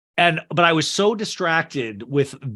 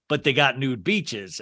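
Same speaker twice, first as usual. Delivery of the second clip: put-on older man voice; 3 semitones lower than usual. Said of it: "older man voice for Buzz".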